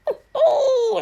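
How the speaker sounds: high, loud mock-manic laughing; imitating a possessed laugh. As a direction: cackle it out like the possessed villain. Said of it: "like, laughing and".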